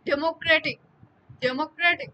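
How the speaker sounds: teacher models the stress in ডেমোক্রেটিক; demonstrated word stress. Shown as a demonstration. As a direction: say ডেমোক্রেটিক with deliberate force. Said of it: "শ্বাসাঘাত পরে হচ্ছে তৃতীয় সিলেবলে".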